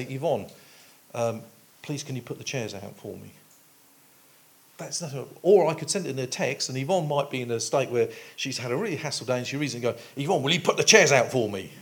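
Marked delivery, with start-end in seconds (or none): 0.0-3.3 soft, kindly spoken ask with a gentle please; gentle courteous asking; polite request. Shown as a demonstration. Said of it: "I could say". 10.2-11.7 louder, quicker, snappy order; brusque impatient reading of a text; curt demand. Retold or imitated. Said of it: "read it in a completely different manner".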